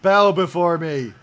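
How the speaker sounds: slow booming villain proclamation; dark lord. Acted. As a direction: command them, slow and loud. Villain boast, loud and slow.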